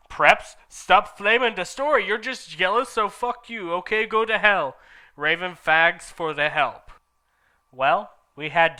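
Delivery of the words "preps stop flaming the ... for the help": high, loud defiant rant; snotty rant. Acted. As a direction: tell off the haters. Author's note rant.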